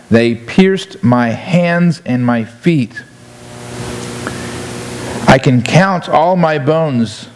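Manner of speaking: slow, measured psalm reading; scripture reading. Acted. Preacher reading Psalm twenty-two to the congregation, slow scripture reading. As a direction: read the verse slowly, drawing out key words.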